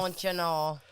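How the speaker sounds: put-on playful echo in a Midwestern accent. Co-host echoing the script line, mock Midwestern accent. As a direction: lightly mimic a folksy Midwesterner. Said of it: "with a Midwestern accent".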